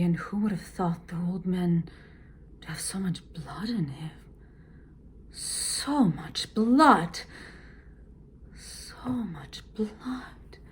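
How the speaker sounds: change the feeling on each repeat; varied repetitions. Shown as a demonstration. Teacher shows repeats each with a new feeling. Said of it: "it must reflect a different emotion".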